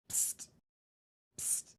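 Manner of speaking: short hissed psst to get attention; sneaky, voiceless call from above; furtive psst. Acted. Lookout hailing a climber on the sly, furtive.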